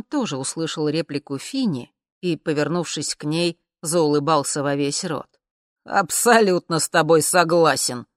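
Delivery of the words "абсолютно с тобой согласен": louder, brash agreement; loud declaration. Acted. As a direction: announce it for all to hear. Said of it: "громко заявил он". (громко, нагловато)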